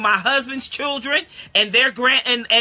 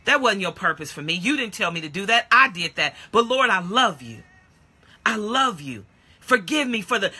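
repentant prayer; 2 semitones lower than usual. Retold or imitated. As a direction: pray it humbly, hushed. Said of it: "the grace of God is that".

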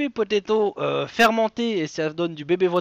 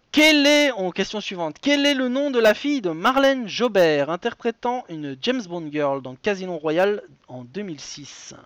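punchy game-show question read, high at the start; emphatic host delivery easing toward the end; quiz host announcing; 3 semitones higher, 4 dB louder than usual. Acted. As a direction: fire off the next question like a presenter.

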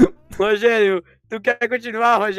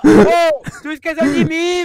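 being chased; 7 semitones higher, 4 dB louder, slower than usual. Real, not acted. Left behind while fleeing.

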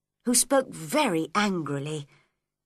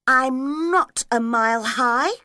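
raised, loud protest; defiant; 4 semitones higher, 5 dB louder than usual. Acted. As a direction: stand up to the queen. Alice defies the Queen.

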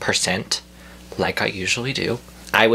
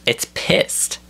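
"pissed" squeezed up high; high-pitched emphasis; 8 semitones higher than usual. Real, not acted. Ranter insisting his eyebrow is angry, high-pitched emphasis.

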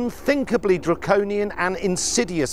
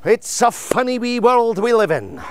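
bad Scottish accent, higher and brighter; 4 semitones higher than usual. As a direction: put on a hammy Scottish accent. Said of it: "That's my Scottish accent".

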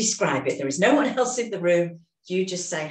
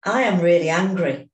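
louder, stronger "I am really angry"; louder affirmation of anger; building up the anger; 6 dB louder than usual. Shown as a demonstration. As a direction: push the feeling up a notch, louder. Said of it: "let's build it up".

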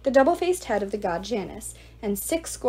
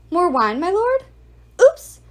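higher, louder fake innocence; serving girl faking an accident; mock servility; 9 semitones higher, 9 dB louder, slower than usual. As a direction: play the clumsy servant. Annabeth spills wine deliberately.

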